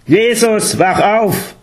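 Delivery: high-pitched, commanding shout to wake up. A narrator's reading. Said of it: "lauter und imperativ".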